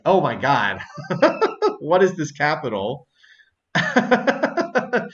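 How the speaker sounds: high, loud disbelief broken by laughter; laughing disbelief. Real, not acted. Player reacting to a map discovery, laughing in disbelief. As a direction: burst out laughing between phrases.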